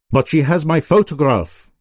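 high, urgent outburst; shouting king. A narrator's reading. The king shouts his fear at Holmes, alarmed and urgent. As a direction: blurt it out in alarm. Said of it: "shouted His Majesty".

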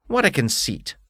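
haughty bug demanding his due; beetle voice. Acted. Beetle scoffs.

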